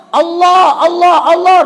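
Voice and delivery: high, loud panicked calling; child crying out. Retold or imitated. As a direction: call out while fleeing. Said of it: "Sampai dia lari terus". (teriakan panik anak kecil)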